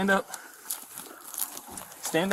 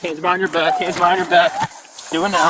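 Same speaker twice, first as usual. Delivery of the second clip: calm turning angry; 6 dB louder than usual. Real, not acted. Officer commands during arrest.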